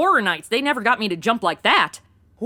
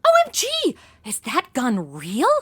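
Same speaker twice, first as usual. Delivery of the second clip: excited. Acted. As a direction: blurt it out thrilled. Grabbing the gangster's gun.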